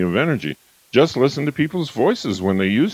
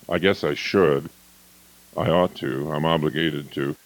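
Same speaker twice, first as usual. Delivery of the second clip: lower, softer, trailing; resigned obligation; 5 semitones lower, 4 dB quieter than usual. Shown as a demonstration. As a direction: let each phrase fade. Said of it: "instead of".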